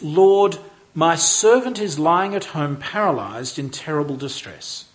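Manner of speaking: forceful opening on Lord, then measured plea; strong appeal. Acted. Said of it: "there's an element of strength about his language".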